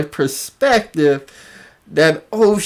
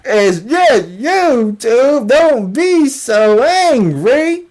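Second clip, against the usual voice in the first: mock placating; 2 semitones higher than usual. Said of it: "your boy fell back talking about".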